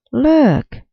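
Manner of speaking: high, loud excited shout. A narrator's reading. A bystander shouting at the flying puppy. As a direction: shout it out to the crowd. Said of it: "someone shouted".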